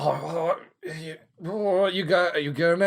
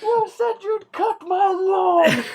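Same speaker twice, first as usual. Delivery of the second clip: slow, high shout at the neighbour; angry neighbour yell; 3 dB louder, slower than usual. Pretend. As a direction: bellow it like a furious neighbour. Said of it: "imagine is neighbours just going out".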